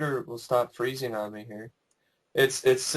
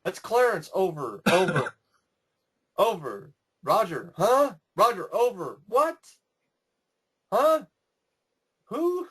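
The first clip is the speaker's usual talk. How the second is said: radio tower chatter; 3 semitones higher than usual. Retold or imitated. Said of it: "dialogue ... when they talk on the towers".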